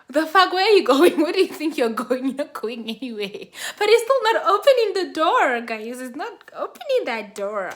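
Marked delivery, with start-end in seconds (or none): 0.1-3.5 raised voice, easing off by the end; mock an indignant man blocking the exit; angry confrontation. Man stopping her leaving for the cab, mock angry confrontation.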